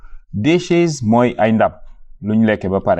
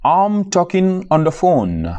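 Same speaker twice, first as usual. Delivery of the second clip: slow model phrase; 7 semitones higher, slower than usual. Shown as a demonstration. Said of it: "teacher models the phrase".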